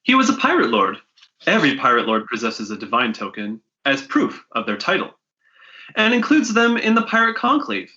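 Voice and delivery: npc voice. Acted.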